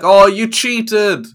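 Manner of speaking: loud, high, drawn-out protest; mock outraged villain. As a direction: cry foul like a beaten cartoon villain. Acts out the beaten villain.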